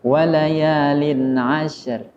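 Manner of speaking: slow chanted tilawah; measured Quranic chant; Quran recitation. Acted.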